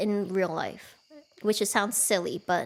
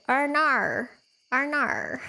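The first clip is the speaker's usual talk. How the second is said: playful Australian "Arnar", pitched up; Australian accent; 4 semitones higher, much slower than usual. Shown as a demonstration. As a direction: say "Arnar" with an exaggerated Australian twang. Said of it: "trick to sound more Australian".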